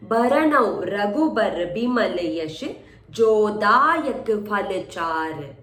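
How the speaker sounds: drawn-out syllable by syllable; slow demonstration. Shown as a demonstration. Teacher reading the couplet slowly for marking. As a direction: spell the line out very slowly.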